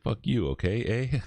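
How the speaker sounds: tossing off a jokey Canadian "eh"; Canadian accent. Retold or imitated. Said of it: "Sounds like a Canadian".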